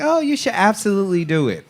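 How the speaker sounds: high, quick insistent quote; imitated urging. Retelling Keith talking her into it, imitated urging.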